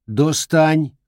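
sharp command. Acted. Grandmother orders.

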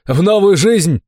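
high exuberant holler; distant call. A narrator's reading. Fat man answers from the forest, calling out. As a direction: call back from among trees. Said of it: "раздалось из леса".

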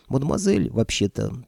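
breathy hollywood starlet; languid drawl. Acted. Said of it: "томно протянула бесовка". (томно протянуть)

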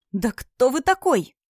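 hissed, slow and pressed. A narrator's reading. Girl hisses at the stranger, slowly and furiously. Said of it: "прошипела Вивьен".

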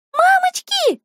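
high frightened shriek. Acted. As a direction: squeal in sudden fright. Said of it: "визжат девочки".

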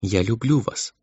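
soft, high girlish voice, lightly voiced; gently repeating her confession, tender; crystal tender voice. A narrator's reading. Girl repeats her love to Emil, tender and soft. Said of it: "своим хрустальным нежным голоском".

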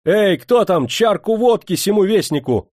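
high, loud, cheerful call; merry shouting. A narrator's reading. New general ordering vodka for the messenger, merry shouting. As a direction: holler merrily for the servants. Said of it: "весело закричал он".

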